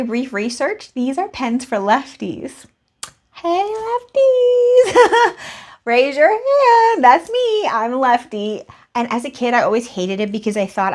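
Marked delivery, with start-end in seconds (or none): 3.3-7.7 excited high greeting. Real, not acted. Excited greeting to fellow lefties.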